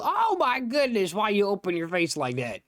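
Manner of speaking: high, loud startled outburst; shocked, high-pitched yelp of words. Real, not acted. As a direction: cry out in alarm at a sudden fright. Startled by Enderman opening its face.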